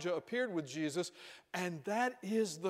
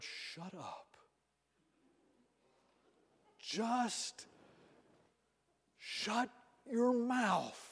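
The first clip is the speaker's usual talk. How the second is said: slow, hushed, commanding rebuke; a divine voice telling Peter to hush; slow, stern heavenly command; stern voice of God; 4 semitones higher, slower than usual. Retold or imitated. God silencing Peter in sermon.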